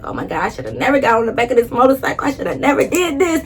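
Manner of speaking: reliving the fear of the ride; panicked thinking. Retold or imitated. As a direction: rush it out in rising panic. Panicked thought on speeding motorcycle.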